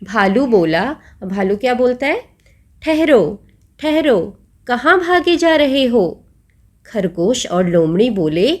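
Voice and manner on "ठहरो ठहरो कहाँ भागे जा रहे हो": bear calling out. Acted. Bear calls out to fleeing animals.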